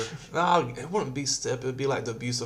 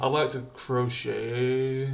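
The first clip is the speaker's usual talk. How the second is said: sweet orc; slower than usual. Pretend. Voicing sweet orc, slow.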